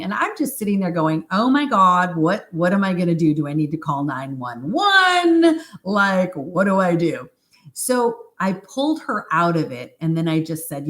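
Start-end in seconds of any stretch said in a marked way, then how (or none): 1.3-7.3 flustered self-questioning, pitch shooting up midway; mild retold panic. Practitioner wonders about calling for help, mock panic. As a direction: replay your own panic, lightly hammed-up.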